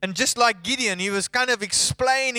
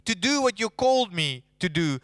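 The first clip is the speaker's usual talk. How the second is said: higher and louder, rising to a desperate plea; exasperated Moses; 6 semitones higher, 3 dB louder than usual. Retold or imitated. Moses begging God to send someone else, higher and louder. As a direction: pile up excuses until it bursts. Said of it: "he was saying to God".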